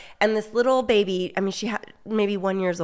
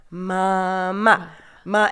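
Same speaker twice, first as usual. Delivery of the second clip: put-on coaxing baby; much slower than usual. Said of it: "I remember being like".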